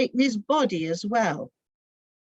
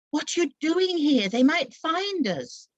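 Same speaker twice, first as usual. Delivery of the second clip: anxious, hushed worry; 7 semitones higher than usual. Acted. James at the door, fearful of being found, anxious. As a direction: urge her to hide, afraid of discovery. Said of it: "James' anxious face peered out".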